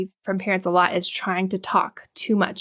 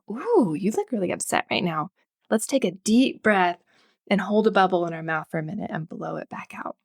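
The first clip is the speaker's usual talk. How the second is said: soothing parent cue. Shown as a demonstration. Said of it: "maybe cueing them like".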